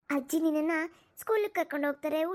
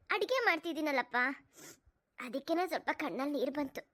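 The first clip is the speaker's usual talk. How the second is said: reassuring mother. Acted. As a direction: brush it off gently, hiding the tears. Mother hides tears from daughter.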